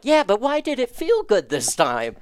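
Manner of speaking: put-on a small child asking, baffled; puzzled kid. Child asking mom why the shot felt good, high kid voice. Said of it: "And I'm like".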